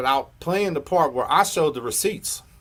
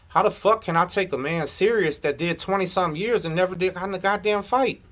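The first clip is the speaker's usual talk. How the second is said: raised-pitch, incredulous challenge; indignant; 4 semitones higher than usual. Real, not acted. Calling out a rival who never fought, indignant. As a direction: demand it in heated disbelief.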